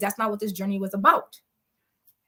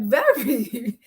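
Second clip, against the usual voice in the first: whispered; 4 dB louder than usual. Retold or imitated. Friend answers flatly in quote.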